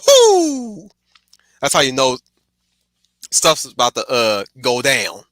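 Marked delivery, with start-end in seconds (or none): 0.1-0.9 loud, high whoop of excitement; hype cheer. Retold or imitated. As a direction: whoop like the crowd just got fired up. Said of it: "I'm like".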